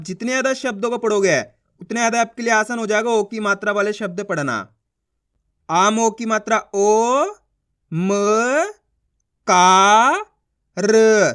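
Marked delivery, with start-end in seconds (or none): 5.7-11.3 ओ, म, का, र each long, with pauses between; syllable sounding out. Shown as a demonstration. Teacher drilling each letter for learners, sounding out. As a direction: spell it slowly, का held long and loud. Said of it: "एक एक अक्षर की पहचान करो, उनका उच्चारण करो".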